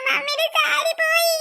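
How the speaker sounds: sobbing lament; crying. Acted. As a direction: sob first, then wail the words. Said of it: "കരയല്ലേ".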